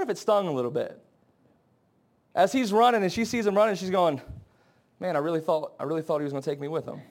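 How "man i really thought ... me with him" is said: low, soft, let-down murmur; acted disappointment. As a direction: voice her hurt quietly, dropping lower. Wife's imagined disappointment.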